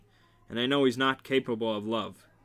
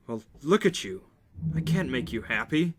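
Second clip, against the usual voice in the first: anguished; 4 semitones higher than usual. A narrator's reading. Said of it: "His voice is anguished".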